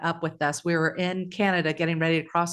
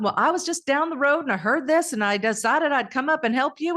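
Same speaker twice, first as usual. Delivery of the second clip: attempted Canadian accent; 7 semitones higher than usual. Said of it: "she's Canadian".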